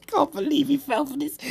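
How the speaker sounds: high, squeezed through real laughter; laughing disbelief. Real, not acted. Gamer amazed the kid fell for it, laughing. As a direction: barely get it out for laughing.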